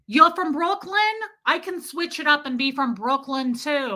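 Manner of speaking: put-on high-pitched Brooklyn-accented challenge; mock Brooklyn accent. Mimicking the man from Brooklyn, mock accent. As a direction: show him you can do Brooklyn too. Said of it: "I totally did his accent".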